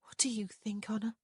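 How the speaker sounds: hushed, whispery question; said softly. A narrator's reading. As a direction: half-whisper it to a sister. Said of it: "Prudence said softly".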